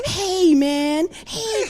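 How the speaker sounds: very high sing-song greeting; high-pitched dog-greeting voice. Acted. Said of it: "I go to this high-pitched voice".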